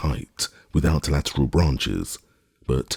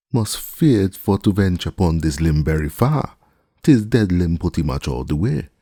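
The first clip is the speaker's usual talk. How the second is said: higher, louder scared call; afraid; 4 semitones higher, 4 dB louder than usual. A narrator's reading. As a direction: call down nervously. Frightened servant on dead limb.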